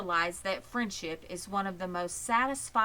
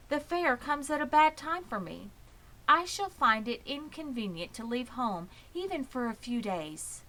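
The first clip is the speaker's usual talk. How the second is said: higher, measured and kindly voice; gentle spider Charlotte; 5 semitones higher than usual. Acted. Charlotte explaining to Wilbur why she can't go, gently.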